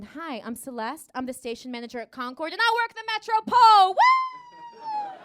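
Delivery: sultry then whooping. Pretend. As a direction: purr the intro, then shriek with glee. Calendar model introduces herself.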